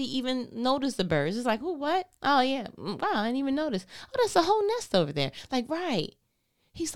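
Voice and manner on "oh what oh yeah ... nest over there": higher, fast, suddenly noticing; mock surprise. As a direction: play someone startled to finally see the birds. Mimics distracted person noticing birds.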